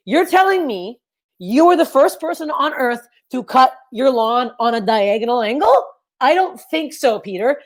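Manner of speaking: sarcastic. Retold or imitated. Sarcastic retort to dad.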